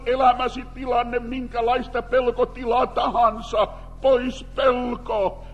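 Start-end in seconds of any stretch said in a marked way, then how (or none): 4.0-5.4 slow, drawn-out proclamation; emphatic preaching. Acted. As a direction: proclaim it slowly and firmly. Preaching comfort. (hidas julistus)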